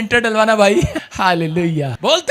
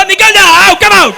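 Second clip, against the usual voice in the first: commanding shout; 7 semitones higher, 7 dB louder, slower than usual. Retold or imitated. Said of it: "मैं कह रहा हूँ".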